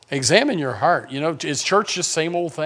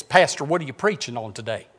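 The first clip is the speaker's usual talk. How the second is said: imitating Sheila; 3 dB quieter than usual. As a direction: draw out the question like Sheila asking her pastor. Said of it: "Only she talked like this".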